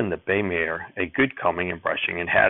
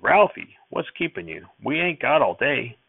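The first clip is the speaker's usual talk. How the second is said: calling out; 6 semitones higher than usual. Acted. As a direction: yell for the boy from afar. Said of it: "Grandfather called".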